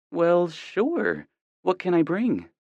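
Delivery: a mom happy to be invited; mother voice. A narrator's reading.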